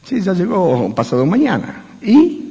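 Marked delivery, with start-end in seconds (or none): 2.0-2.4 sharp high prod. Acted. Pressing the procrastinator again.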